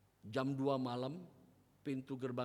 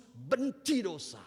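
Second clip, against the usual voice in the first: "Benci dosa" louder, very slow, each word hammered; emphatic slow answer; 7 semitones higher, 9 dB louder, much slower than usual. Shown as a demonstration. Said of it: "Apa artinya hidup kudus?". ("Benci dosa" diucapkan lambat dan keras)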